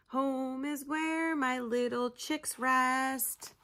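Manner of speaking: singsong rhyme, slowing at the end; rhyming verse. Acted. Gull telling Pip where home is, in rhyme. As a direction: recite it like a nursery rhyme.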